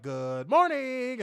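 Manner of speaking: high, slow sing-song good morning; high slow cooing good morning; sweet mock greeting. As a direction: coo it sweetly.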